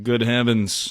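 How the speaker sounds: lightly put-on British accent; mock British. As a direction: play a proper Brit in the bedroom. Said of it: "what British people sound like".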